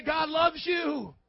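high, slow, carrying church call; rallying proclamation. Shown as a demonstration. Preacher has neighbours tell each other, high rallying proclamation. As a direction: proclaim it slowly for all to repeat.

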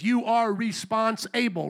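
You are response-able, split into response and able; slow, with able set apart; stressed response-able. Shown as a demonstration. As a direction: lean on response-able, slowly. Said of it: "we always like to emphasize".

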